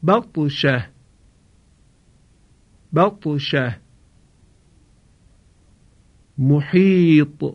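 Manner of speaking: slow tajwid, the ط of محیط bounced with a light echo; recitation with qalqala. Shown as a demonstration. Teacher models the ta examples for students. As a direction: chant each word slowly and echo the ta.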